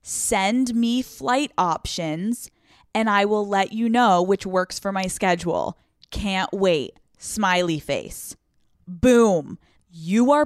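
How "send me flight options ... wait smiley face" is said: slow, deliberate dictation of the text; slowly reading out the exact text to send; dictating slowly. Shown as a demonstration. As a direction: spell the message out word by word. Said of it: "you verbatim write".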